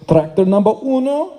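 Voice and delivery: lightly imitated Spanish accent; mock Spanish accent, showing off. Friend pointing out his biceps as tractors, in a put-on Spanish accent. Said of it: "This is my best Spanish accent".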